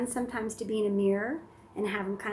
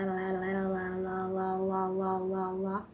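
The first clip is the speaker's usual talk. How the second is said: la babble. Shown as a demonstration. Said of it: "becomes your la".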